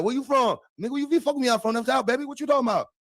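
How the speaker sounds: put-on girls' Southern accent. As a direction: tease a fake country boy. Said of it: "And they be like".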